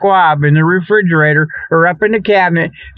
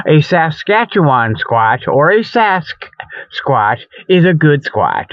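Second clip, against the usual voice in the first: folksy sponsor host; 2 semitones higher than usual. Acted. Bugs pitching squab donations to listeners, hammy host voice. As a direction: sell squab like a late-night pitchman.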